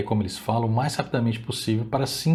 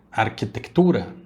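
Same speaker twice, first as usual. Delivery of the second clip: Spanish accent. Shown as a demonstration. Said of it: "ditas da maneira hispânica".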